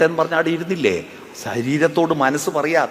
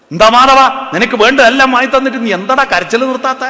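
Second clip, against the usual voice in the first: higher and louder, an impatient scolding; exasperated demand; 8 semitones higher, 7 dB louder than usual. Acted. Bystander losing patience with the crying child, exasperated demand. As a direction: snap at the child who won't stop crying.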